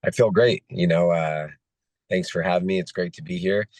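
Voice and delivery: hoarse, voice almost gone; talking through a lost voice. Real, not acted. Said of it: "I lost my voice though".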